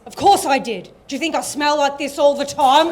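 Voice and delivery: put-on a loud punchline from the old mate, laughing. Old friend at the bus stop answering his mate, loud and laughing.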